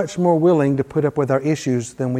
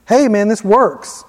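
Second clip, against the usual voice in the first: slow, amazed and delighted; excited disciples; 4 semitones higher, slower than usual. Retold or imitated. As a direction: savour the surprise that it works. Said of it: "And they're excited".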